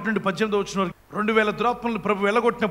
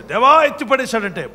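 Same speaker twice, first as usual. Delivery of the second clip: imitated cry to God; 5 dB louder than usual. Clay cries out to God.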